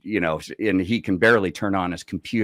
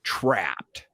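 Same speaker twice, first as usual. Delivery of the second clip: whispered word; 3 semitones lower, 7 dB quieter than usual. Retold or imitated. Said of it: "anchored that problem with one word".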